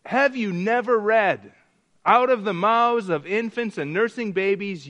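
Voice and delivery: emphatic scriptural comeback; pointed rebuttal. Acted. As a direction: answer the accusers firmly and emphatically. Jesus answers the indignant priests.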